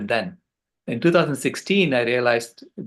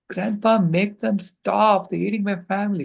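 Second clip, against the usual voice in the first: imitated child pleading; 8 semitones higher than usual. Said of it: "She started bawling".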